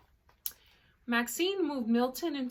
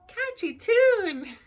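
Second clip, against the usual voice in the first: fish character voice; 8 semitones higher, 8 dB louder, slower than usual. Acted. Voicing fish enjoying the music.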